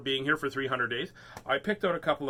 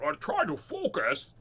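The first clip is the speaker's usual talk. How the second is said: upset Captain Picard. Retold or imitated. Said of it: "a very upset Captain Picard".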